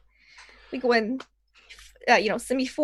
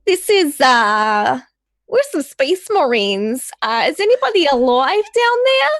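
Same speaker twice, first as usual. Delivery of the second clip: loud, higher comms hail to possible survivors; calling out; 4 semitones higher, 5 dB louder, slower than usual. Acted. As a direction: call down the line for anyone alive. In character, calling over the comms.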